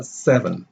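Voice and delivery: slow "seven", weight on SE; stressed first syllable. Shown as a demonstration. Teacher showing the rhythm of a sentence, first-syllable stress on "seven". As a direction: stress SEV, leave -en light. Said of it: "The stress".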